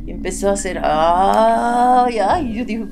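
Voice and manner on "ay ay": imitated wail. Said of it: "empezó a gritar muy feo".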